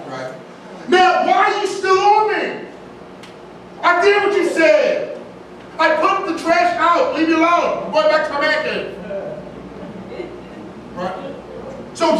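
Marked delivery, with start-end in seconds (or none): 0.9-9.0 annoyed husband. Acted. Husband brushing off his wife.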